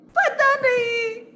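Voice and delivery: high, loud, stretched-out wail; wailing queen. Acted. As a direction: bawl the answer theatrically. Crying queen admits ignorance. (ज़ोर से रोती रानी)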